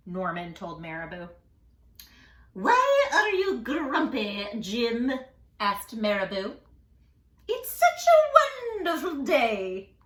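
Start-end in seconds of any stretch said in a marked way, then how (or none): 2.5-5.1 curious bird. Acted. Marabou voiced. 7.5-10.0 high, slow, loud delight; cheery bird voice. Acted. Marabou cheering up Jim, high and delighted.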